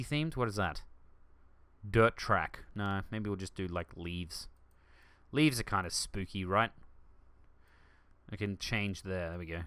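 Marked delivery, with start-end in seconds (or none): none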